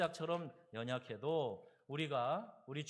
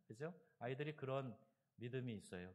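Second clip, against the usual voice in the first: usual speaking voice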